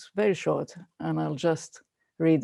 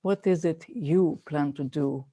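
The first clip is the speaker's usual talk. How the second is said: soft, measured poetry recital; poem reading; 4 dB quieter than usual. Acted. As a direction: read it gently, letting each line settle. Reads Mary Oliver poem aloud.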